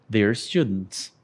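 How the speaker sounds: "they're students" with "they're" as one syllable; contracted form. Shown as a demonstration. Teacher repeats the contraction for the students. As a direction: say "they're" joined up. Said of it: "Nós falamos they're".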